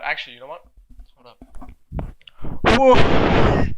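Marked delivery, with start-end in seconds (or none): 2.8-3.7 a high airy voiceless whoop; breathy woo. Real, not acted. Retaking the opening woo as a voiceless high whoop. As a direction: push the woo out as pure breath. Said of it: "That's gonna sound so bad".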